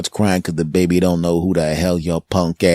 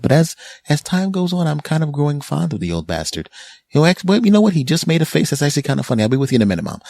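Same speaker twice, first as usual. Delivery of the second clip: put-on much higher, excited baby voice; translated baby; 8 semitones higher, faster than usual. Baby warming up to the old guy, high and excited. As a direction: pitch way up as the delighted baby. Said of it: "the baby says".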